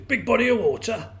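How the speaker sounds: high, loud frog voice in disbelief; incredulous well frog. A narrator's reading. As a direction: echo it as a scoffing, baffled frog.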